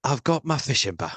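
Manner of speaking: badly faked Cockney actor impression; lightly put-on impression, soon abandoned; Michael Caine. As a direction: make a half-hearted try at a Cockney film star. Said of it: "No, I can't do it".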